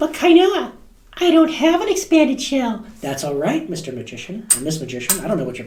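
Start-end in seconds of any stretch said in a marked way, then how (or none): 0.0-2.8 very high, slow, squeaky helium voice. During a coin trick, a voice speaks up to the magician; high squeaky helium voice. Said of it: "you just got to stop sucking on the helium".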